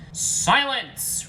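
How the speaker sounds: high, booming roar. A narrator's reading. Garfield breaks up the fight, loud roar. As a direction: silence the room with one loud cry. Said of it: "roared Garfield".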